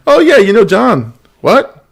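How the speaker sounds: high-pitched, playful imagined conversation; mock awkward exchange. Host imagines a neighbor on the top five, mock awkward. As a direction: act out the awkward moment, pitched well up.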